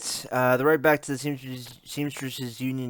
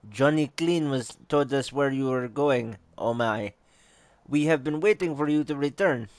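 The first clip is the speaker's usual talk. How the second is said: put-on approximate Russian accent, slightly raised; a homemade Russian accent for a game character; 3 semitones higher than usual. Game character greeting the returning detective, Russian accent. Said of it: "want to give her a Russian accent".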